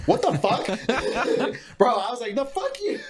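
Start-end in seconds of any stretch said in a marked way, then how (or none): 0.1-0.7 mock outraged yell. Voicing himself facing the pigeon. 2.3-3.0 high squeaky comeback through a laugh; giggling high-pitched fuck-you; laughing mock retort. Retelling clash with pigeon.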